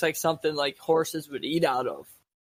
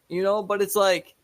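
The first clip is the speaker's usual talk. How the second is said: normal talking voice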